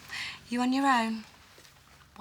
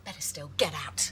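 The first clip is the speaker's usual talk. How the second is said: whispered threat; 2 semitones lower than usual. Acted. Hissed quarrel, keep voice down.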